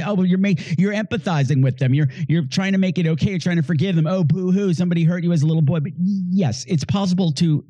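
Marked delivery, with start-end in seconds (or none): 0.0-5.8 mocking boo hoo. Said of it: "You say".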